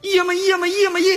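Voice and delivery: high, chanted army slogans; shouting slogans. Acted. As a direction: bark the count like a drill squad. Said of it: "你喊口号".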